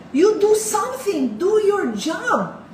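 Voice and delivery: high, loud and slow, demanding they act. Retold or imitated. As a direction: slowly hammer out each word at an official who won't help. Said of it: "magtataas akong boses". (malakas at mabagal na sigaw)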